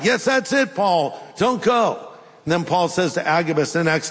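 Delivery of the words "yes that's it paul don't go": mock-urgent prophet, pitched up; dramatic plea. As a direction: insist with a touch of theatrics. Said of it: "being a little dramatic".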